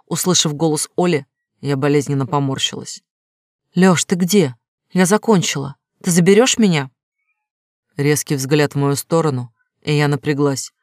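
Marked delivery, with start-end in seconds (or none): 3.7-6.9 higher, brighter caller voice; a bit higher, louder on the phone; higher female voice. Acted. Olya on speakerphone.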